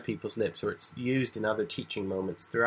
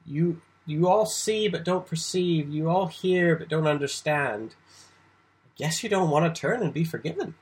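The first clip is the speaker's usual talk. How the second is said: Jesus speaking with ironic tone to the crowd; 4 semitones higher than usual. Shown as a demonstration. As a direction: let the irony sit, like a parent teasing a stubborn child. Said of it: "think of the tone of voice here".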